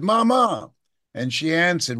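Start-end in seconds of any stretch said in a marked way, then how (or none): 0.0-0.7 higher child's call, lightly voiced; calling Mama as a boy. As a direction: call out to mother like a ten-year-old. Boy calling his mother.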